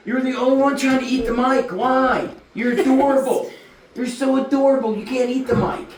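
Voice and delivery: put-on high-pitched baby talk to a dog; doting pet scolding. Owner telling his big dog not to eat the mic, high playful scolding.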